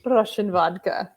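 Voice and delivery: hint of a mock Russian accent on "Russian vodka". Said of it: "That's my Russian accent for you".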